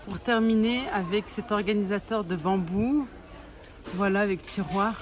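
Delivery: numb mouth after dental work; talking with a numb mouth; numb from the dentist. Real, not acted. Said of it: "je sors de chez le dentiste".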